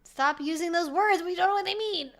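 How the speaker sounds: mock-rant like a cranky old geezer at the youth; angry old man. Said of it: "I'm an angry old man".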